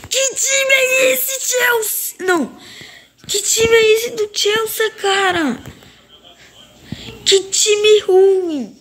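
high, slow whiny lament; whining despair. Real, not acted. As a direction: moan it like it hurts. Reclama do time, chorando. (lamento choroso e arrastado)

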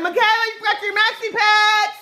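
mock embarrassing mother. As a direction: pretend to embarrass your kid at school, calling it out high. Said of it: "I'm gonna like".

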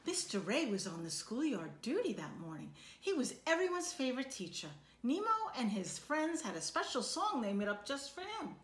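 lively storybook read-aloud for a class; reading to children. A narrator's reading. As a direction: read it like a picture book to kids. Teacher reads picture book aloud.

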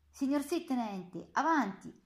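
a guard answering the officer, then barking at the women; military reply. Acted. (risposta militare a voce alta)

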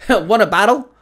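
bursting to battle; pure delight. A narrator's reading. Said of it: "his voice filled with pure delight".

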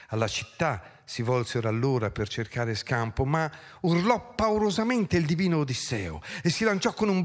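dramatic verse recital, surging and settling; theatrical poetry reading with stretched phrase endings; declaimed epic narration. A narrator's reading. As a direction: declaim the battle as ancient epic. Reads epic battle finale aloud.

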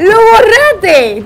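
high, loud, very slow accusation; accusing. Acted. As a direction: stretch every syllable accusingly. Accusing partner of deleting. (acusación muy lenta)

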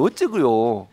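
Jeolla-dialect exclamation with a lifted ending; exasperated Jeolla-style questioning. Shown as a demonstration. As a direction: show how Jeolla folk say it. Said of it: "이건 전라도 말로".

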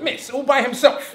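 slow, pointed, mock-innocent disbelief; sceptical question. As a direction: draw it out like a doubting seven-year-old. Sceptical child questioning teacher.

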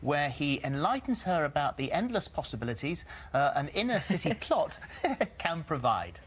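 breaking up mid promo read. Real, not acted. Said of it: "Did I make that sound interesting?".

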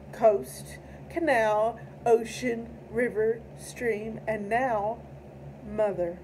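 measured, solemn poem recitation; poetry reading. Acted. Reads tribute poem aloud.

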